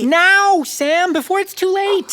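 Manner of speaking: urgent demand. Acted. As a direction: push him now, in a panic.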